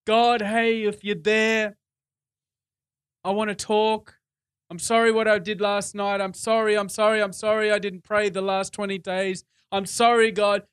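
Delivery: mock apologetic prayer, sorry after sorry. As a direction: imitate someone sheepishly apologising to God. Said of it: "sort of apologetic".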